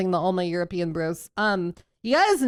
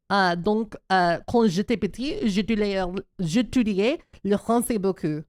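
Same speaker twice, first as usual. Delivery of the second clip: American accent in French. Shown as a demonstration. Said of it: "I'm French, by the way".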